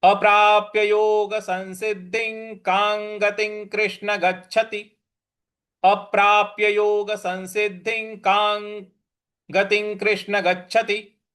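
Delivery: steady measured recital of the line; verse recitation. Shown as a demonstration. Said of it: "पूरी पंक्ति क्या बन रही है".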